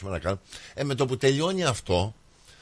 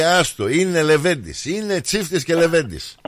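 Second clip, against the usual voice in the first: quoted father; 4 semitones higher, 3 dB louder than usual. Retold or imitated. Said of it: "μου λέει".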